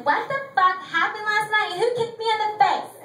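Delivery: a hint of frantic morning-after confusion; hungover call. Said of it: "call my friend and be like".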